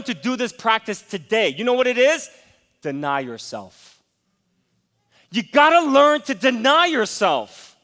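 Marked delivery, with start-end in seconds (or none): 2.8-4.0 "Deny yourself" dropped low and soft, slow; quiet emphasis. Acted. Pastor softly gives the congregation the key, slow quiet "Deny yourself". 5.3-7.8 "deny yourself" repeated louder and higher, slow; loud emphasis. Acted. Pastor repeats to the congregation, loud slow "deny yourself".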